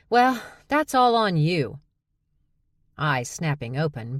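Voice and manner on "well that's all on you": annoyed. A narrator's reading. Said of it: "Charlie let out an annoyed sigh".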